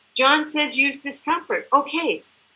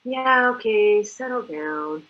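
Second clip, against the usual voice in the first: dismissive; slower than usual. Retold or imitated. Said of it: "back then I'd be going".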